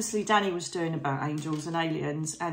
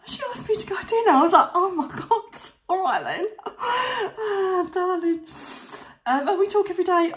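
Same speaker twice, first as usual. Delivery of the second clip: much higher, fast, laughing gush; giddy excitement; 12 semitones higher, 5 dB louder than usual. Real, not acted. Vlogger telling viewers a famous doctor invited her to dinner, giddy laughing gush. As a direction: gush like a starstruck fan. Gushing over dinner with celebrity.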